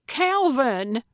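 high, loud cry of betrayal; appalled exclamation of a name; horrified cry. Acted. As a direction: call out aghast, pitch jumping up. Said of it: "Gertrude cried, horrified at the prospect".

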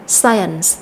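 "science" stressed on its first syllable. Shown as a demonstration. Teacher models the noun for students, first-syllable stress. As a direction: put the weight on the start of "science", slowly. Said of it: "âm tiết thứ nhất đối với danh từ này".

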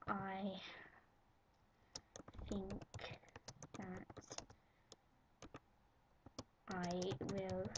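each word dragged out slowly as she types; slow dictation. Retold or imitated. Girl dictating her fan entry, halting and slow. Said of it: "I'm gonna say".

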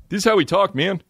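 high, swooping dude voice; imitating his buddy. Comic showing how an old roommate talked, imitated dude voice. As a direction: put on a high, exaggerated bro voice. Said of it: "he used to talk like this".

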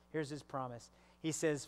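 ordinary delivery

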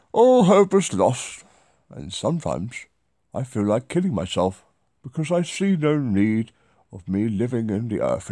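lightly voiced posh older man reading a letter; hint of a pompous old gentleman, mock solemn; Edward voice. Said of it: "called Edward".

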